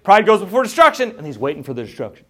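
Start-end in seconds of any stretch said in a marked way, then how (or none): 0.0-1.1 loud, high proclamation; mock eager Asaph. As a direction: announce doom expectantly. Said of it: "And Asaph's like".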